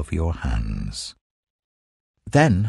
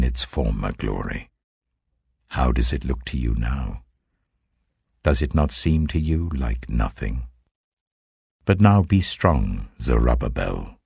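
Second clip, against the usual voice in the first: lower, solemn divine voice; a measured, lower voice of the Lord giving commands; 5 semitones lower than usual. Acted. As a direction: speak as God addressing his prophet, gravely. Voicing the Lord's words.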